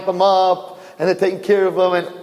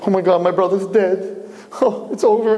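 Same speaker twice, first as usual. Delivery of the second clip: higher, understated alarm; mock horror; 5 semitones higher than usual. Twin in the womb thinks his brother died, mock horror. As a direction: react as if to terrible news. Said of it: "He's like".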